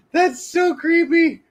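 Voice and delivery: high, slow, laughing squeal. Real, not acted. Reacting to a creepy AI image of himself, high laughing squeal.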